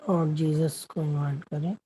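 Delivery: unhurried meditation guidance with long silences; guided meditation. Acted. Meditation host guiding the group to watch their breath, guided meditation. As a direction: lead them gently inward, leaving long pauses between phrases.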